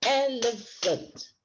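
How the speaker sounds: slow, split each word into its syllables. Shown as a demonstration. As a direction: clap the beats as you say it, slowly. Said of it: "clap out the syllables".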